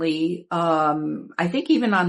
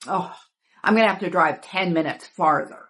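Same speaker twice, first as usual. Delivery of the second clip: said with real disgust. Retelling what he said about driving farther: imitating someone saying it disgustedly. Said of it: "he said it real disgustingly".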